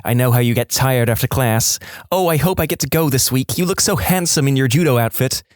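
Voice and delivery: lightly voiced gushing mum; mum on the phone. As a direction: chatter on fondly as an oblivious mother.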